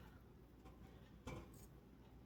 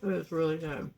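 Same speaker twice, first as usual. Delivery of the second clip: talking through a mouthful of pancake; mouth full; 3 dB louder than usual. Real, not acted. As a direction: say it while chewing, mouth full. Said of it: "I'm talking with my mouth full".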